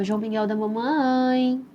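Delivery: put-on slow, tender call to the baby; tender sing-song. Shown as a demonstration. Mother cooing slowly to her baby in the womb. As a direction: coo his name slowly like a lullaby. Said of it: "Eu falava exatamente nessa entonação".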